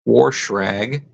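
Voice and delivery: Warschrag, wash rag said WARSH-rag; Appalachian pronunciation. Shown as a demonstration. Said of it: "you've also got".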